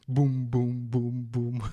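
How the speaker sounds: mock booming blows, evenly spaced; playful "boom" sound effects; imitated smashing. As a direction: punch out cartoonish impact noises. Imitates the guru smashing opponents.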